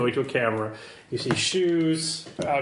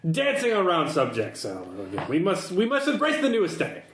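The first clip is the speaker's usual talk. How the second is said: affected fashion character. Acted.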